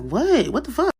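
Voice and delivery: high, loud startled yell; alarmed outburst. Acted. Boyfriend startled by her sudden panic, alarmed yell. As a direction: blurt it out in loud disbelief.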